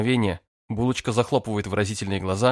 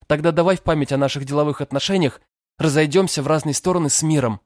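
insistent; 7 semitones higher, 5 dB louder than usual. A narrator's reading. Girl pleading to part ways.

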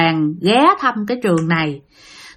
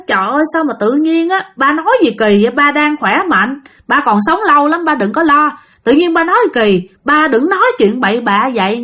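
alarmed family outcry; 4 semitones higher than usual. Retold or imitated. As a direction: plead with father not to talk so. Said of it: "người nhà mới la nữa". (con cái hốt hoảng la lên, cao giọng và to hơn)

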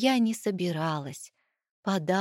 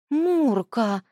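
relieved exhale; 4 semitones higher, 5 dB louder, much slower than usual. Acted. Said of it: "с облегчением выдохнула я".

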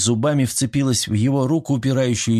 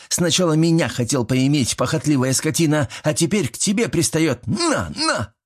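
higher, rising furious rant; angry tirade; 5 semitones higher than usual. A narrator's reading. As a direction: rage while striking him. Mila rages while beating. (Мила в ярости ругает Иля)

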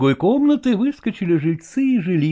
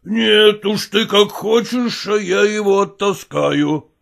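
slow, lightly grim man's voice; a hint of a husband set on punishment; determined stepfather; 4 semitones higher, slower than usual. Stepfather telling his wife he will thrash the boy, slow and grim.

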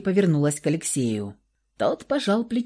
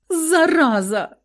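high, slow, drawn-out exclamation; exasperated jab; 10 semitones higher, 3 dB louder, slower than usual. A narrator's reading. Sister snaps at teasing brother, exasperated. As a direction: fling the word at him.

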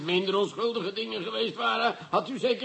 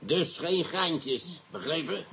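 each word slow and deliberate, menacing; slow warning; much slower than usual. Acted. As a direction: lay down the law slowly. Commissioner warns the released suspect.

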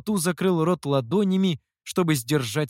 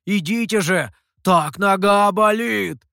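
feigned pain; 5 semitones higher, 7 dB louder than usual. Pretend. Mihou fakes a hurt leg.

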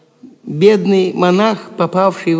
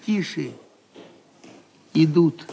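hushed warning; 6 semitones lower, 6 dB quieter than usual. Acted. Guards are coming to the cell.

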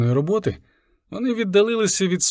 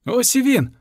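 high, triumphant cry; excited exclamation; 8 semitones higher than usual. A narrator's reading. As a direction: call out in relief. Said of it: "вигукнув я".

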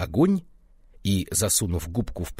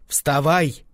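loud shout, higher, to wake him; wife shouts; 6 semitones higher, 5 dB louder than usual. A narrator's reading. Wife shouting her deaf husband awake, loud. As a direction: bark it loud, up high. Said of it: "крикнула она".

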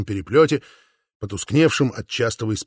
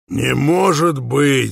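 shout; 4 dB louder, much slower than usual. A narrator's reading. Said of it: "закричал Ян Паулюс".

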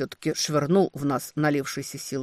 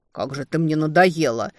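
fed-up outburst, half-hearted; exasperated; 5 dB louder than usual. Acted. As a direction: snap it out in frustration. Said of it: "в сердцах произнёс демон".

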